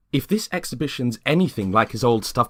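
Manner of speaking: a sweetly nosy suburban wife, pitched high; chirpy neighbour Lexi. Acted. Lexi chiding James for skipping the party, high and sugary. Lexi gossips about Peter.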